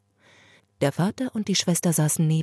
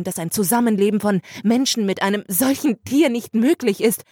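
higher, louder urgent pleading; agitated sister; 6 semitones higher, 3 dB louder than usual. Acted. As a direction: push the father to agree. Sister's agitated plea to father.

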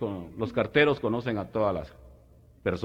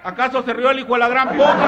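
mock old man; 13 semitones higher, 7 dB louder than usual. Old man's punchline.

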